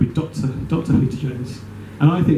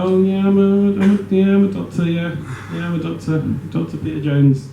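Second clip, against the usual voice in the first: smug; 2 semitones higher than usual. Acted. PhD holder answers a call for a doctor, smugly. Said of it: "a P H D would make me smug".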